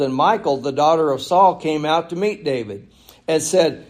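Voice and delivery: projected pulpit reading; scripture reading. Acted. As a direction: read the verse out to the congregation. Reads scripture aloud.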